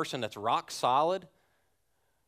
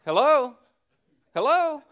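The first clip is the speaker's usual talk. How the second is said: hello into dead line; 13 semitones higher, 9 dB louder than usual. Retold or imitated. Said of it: "And I went".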